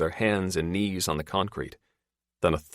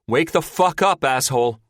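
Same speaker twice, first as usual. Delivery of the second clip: loud, higher angry yell; angry shout; 9 semitones higher, 7 dB louder than usual. A narrator's reading. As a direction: bark it at a sleeping friend. Shouting to wake Lowell.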